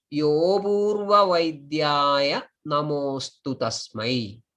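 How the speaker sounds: long vowels, words joined in flowing lines; shloka read aloud. Shown as a demonstration. Teacher reading the shlokam once again, measured recitation. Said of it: "read the shlokam aloud".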